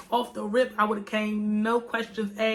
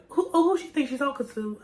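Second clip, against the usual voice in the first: indignant retort; 4 semitones higher than usual. Retold or imitated. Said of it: "I was mad".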